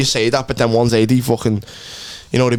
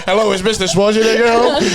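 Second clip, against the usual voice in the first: maid voice; 7 semitones higher than usual. Retold or imitated. Mock Latina maid voice.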